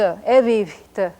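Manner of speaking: evivte with a whispered syllable after the second V sound; whispered middle vowel. Shown as a demonstration. Teacher pronounces blue for beginners, evivte with whispered middle. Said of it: "whispered vowels in the middle".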